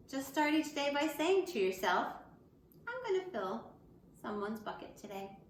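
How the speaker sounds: put-on lively picture-book reading for kids; reading to children. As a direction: read it out brightly to the class. Teacher reads picture book aloud.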